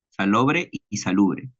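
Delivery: slow, careful "salobre y salubre", each vowel clear; careful pronunciation. Shown as a demonstration. Student showing the class two similar words, slow and careful. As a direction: spell out "salobre y salubre" by sound, slowly. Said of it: "la pronunciación es parecida".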